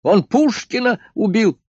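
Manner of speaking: high, loud, indignant shout; still yelling. A narrator's reading. Doctor keeps yelling from his office. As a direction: keep shouting, outraged. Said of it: "завопил из кабинета доктор".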